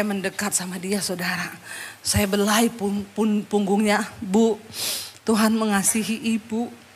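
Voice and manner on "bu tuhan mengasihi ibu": tender comfort. Retold or imitated. Comforting woman, stroking her back.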